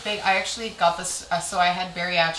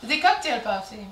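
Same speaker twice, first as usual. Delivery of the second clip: sneaky passive-aggressive. Retold or imitated. Coworker snubbing a colleague about the party, sneaky fake-sweet. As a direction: finish the veiled dig sweetly. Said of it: "It was sne-, it wasn't, like, outward fights".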